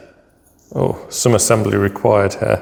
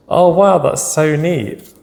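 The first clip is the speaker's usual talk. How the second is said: excited; 6 semitones higher, slower than usual. Real, not acted. Delighted at the picture cards.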